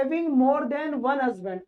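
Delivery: slow, deliberate read-aloud; slow dictation. Shown as a demonstration. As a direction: read very slowly, word by word. Teacher reads phrase slowly.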